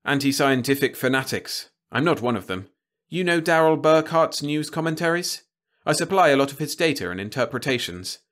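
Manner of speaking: a hint of a tense newsman making demands; urgent reporter. A narrator's reading. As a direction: press the threat home, keep it steady.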